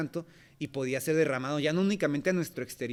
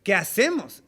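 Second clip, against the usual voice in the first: louder, earnest pleading question; sincere plea; 3 semitones higher, 6 dB louder, slower than usual. Retold or imitated. Convicted crowd asking what to do, earnest plea. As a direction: ask it with a convicted heart. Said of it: "tan sincera y tan natural de decir".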